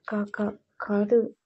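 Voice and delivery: slow, stuttered first syllable; nervous stammer. A narrator's reading. Madhu daring to contradict Vikram, nervous stammer. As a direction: stick on the opening sound before getting it out.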